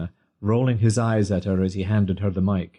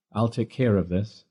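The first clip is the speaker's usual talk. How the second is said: strong deep voice. Acted. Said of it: "The strong, deep voice".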